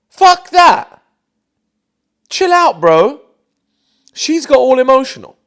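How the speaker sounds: loud, high shout of disgust; exasperated outburst. Real, not acted. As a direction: blast it out, fed up. Reacting to his own beta impression.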